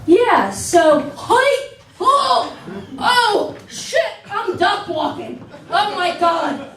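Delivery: squealing high, laughing through it; panicked yelps cut with laughter; mock panic. Comedian acting out bathroom panic, squealing and laughing. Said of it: "I'm like".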